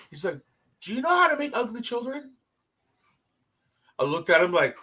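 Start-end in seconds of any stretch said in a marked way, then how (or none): 0.8-2.3 put-on higher-pitched French-accented question. Bus driver setting up a joke, French accent. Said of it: "we have the strong French accent".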